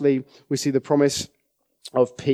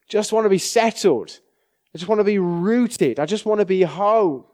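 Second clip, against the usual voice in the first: yearning; 7 semitones higher than usual. Pretend. People's longing voiced again.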